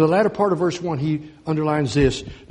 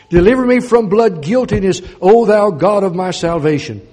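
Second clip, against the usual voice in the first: louder, higher cry for deliverance; fervent plea; 3 semitones higher, 8 dB louder than usual. Acted. Preacher crying David's plea for deliverance, higher and louder. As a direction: lift the voice and plead. Preacher cries psalm verse.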